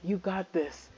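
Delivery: soft murmur to oneself; calm yourself quietly; quiet self-pep talk; self-reassuring. Real, not acted. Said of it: "collect yourself".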